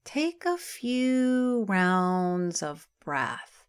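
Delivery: calm, unhurried meditation voice with long pauses; guided meditation. Acted. Yoga teacher settling listeners into Yoga Nidra, guided meditation. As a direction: ease them into rest, phrase by phrase, drawing out key words.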